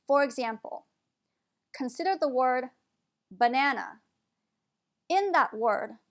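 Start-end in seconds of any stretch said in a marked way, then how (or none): 3.3-4.0 "banana" with first and last A as uh; schwa in banana. Shown as a demonstration. Teacher giving an example word, schwa at both ends. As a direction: say "banana" as buh-NAN-uh. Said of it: "first A and the last A are pronounced as a schwa".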